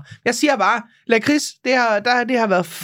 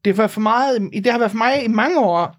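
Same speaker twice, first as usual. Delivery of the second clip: broad North Jutland. Shown as a demonstration. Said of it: "Nu bliver jeg rigtig nordjysk".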